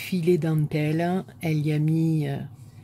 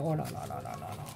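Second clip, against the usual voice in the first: amazed deep oh là là; 13 semitones lower, 8 dB quieter, much faster than usual. Real, not acted. Unwrapping gift, amazed.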